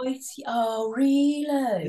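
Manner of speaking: exaggerated Brummie accent; put-on Birmingham accent. Shown as a demonstration. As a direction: slip right into mock Brummie. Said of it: "I go from like that to".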